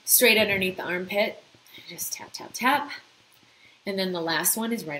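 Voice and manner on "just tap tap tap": whispered tapping cue. Shown as a demonstration. Guiding listeners through tapping, whispered cue. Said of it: "gentle tapping demo".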